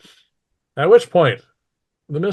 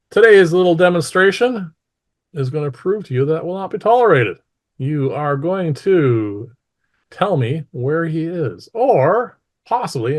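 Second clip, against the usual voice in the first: higher, emphatic ruler's threat to a crowd; loud voice; 6 semitones higher, 5 dB louder than usual. A narrator's reading. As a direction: project the warning with deliberate weight. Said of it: "she says this in a loud voice".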